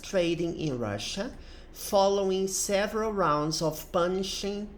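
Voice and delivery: measured English read-aloud, phrase by phrase; article read-aloud. Acted. Teacher reading an English news article to students, careful read-aloud. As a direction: read it out clearly for language students.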